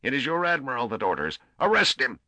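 high, loud shrieked command. A narrator's reading. Admiral ordering his men to arrest the priest, shrieking. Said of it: "He paused and then shrieked".

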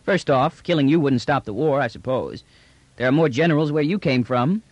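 matter-of-fact slangy trader; brash trader, reasoning. Acted. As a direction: lay out the odds breezily.

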